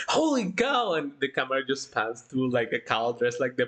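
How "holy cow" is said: higher mock shout of holy cow; mild mock shout. Retelling a video clip, a light mock shout. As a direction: call it out like someone in a crowd. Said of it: "one of them just shouts".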